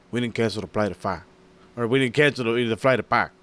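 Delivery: imitated Mexican accent, words run together; mock Mexican-accented denial; thick Mexican accent. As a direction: mimic a heavy Mexican accent, swallowing the last consonant. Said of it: "his Mexican accent is just so damn thick".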